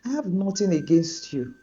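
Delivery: a hurt friend forgiving but distant; hurt and torn. Acted. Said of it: "Tolu was torn".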